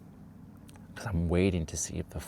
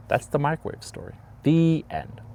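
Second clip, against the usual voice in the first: playful wrap-up; 8 semitones higher than usual. Real, not acted.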